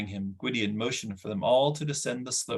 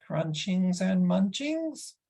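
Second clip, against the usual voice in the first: much higher, slow begging whine; slow hopeful creature whine; 9 semitones higher, slower than usual. Acted. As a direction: angle for a treat like a greedy little beast. Gurgi begs for food.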